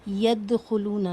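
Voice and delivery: یدخلون slowly with the د bouncing, an echoing release; bouncing qalqalah. Shown as a demonstration. Teacher demonstrates the qalqalah on دال, slowly. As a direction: let the د bounce. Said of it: "bouncing sound یا ایکو sound کے ساتھ".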